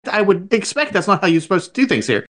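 retelling an offended comeback; indignant retort. Retold or imitated. Customer retorting to the corporate phone agent, indignant.

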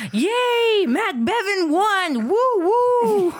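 high, loud mock cheer with laughter; excited screaming. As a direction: squeal it like a thrilled fan. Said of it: "she started screaming, like".

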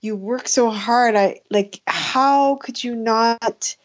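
reproachful mother. Retold or imitated. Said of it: "she was like".

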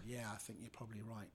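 whispered, resigned agreement; meek whisper. Retold or imitated. Comedian meekly giving in to the bully, whispered. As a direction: give in under your breath.

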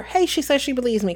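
lightly voiced pleased discovery; Harry reading aloud. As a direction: read it out with mild excitement. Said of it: "'cause it's Harry reading it".

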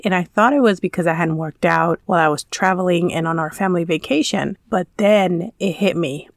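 congested, worn-out voice; sick voice. Real, not acted. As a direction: talk through a cold. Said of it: "if my voice sounds funny".

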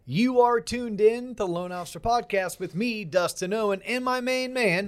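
big showman intro, drawn out; ringmaster. Pretend. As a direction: announce it like a circus ringmaster. Podcast intro announcement.

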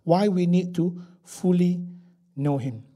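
"fully" held slow and set apart; measured emphasis on "fully", then settle; stress on fully. Shown as a demonstration. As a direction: repeat deliberately, leaning on "fully". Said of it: "the emphasis on fully".

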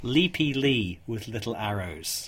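slow, deliberate, each word spaced; slow clear repeat. Shown as a demonstration. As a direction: announce it again, slowly and clearly. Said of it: "I'll say that again".

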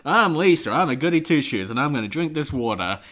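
prim mock Lisa; Lisa impression. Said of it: "they're like".

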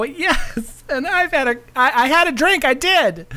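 high glamorous diva host; femme fatale. Acted. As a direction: coo it like a sultry showgirl. Hosts in her show persona.

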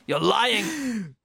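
high hammed-up protest; mock disbelief. LeVar Burton refusing to believe, mock disbelief. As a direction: cry it out in high mock denial. Acted retort from the film.

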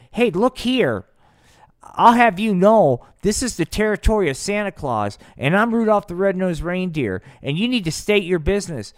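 high, loud officious challenge; cocky attitude. Acted. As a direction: stand your ground, loud and indignant. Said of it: "cop a little attitude with the space alien".

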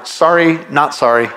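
tossed-off, shrugging sorry not sorry; flippant non-apology. Retold or imitated. Preacher mocking a fake apology to the church, flippant. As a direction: brush it off, no real regret. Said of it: "people say right now".

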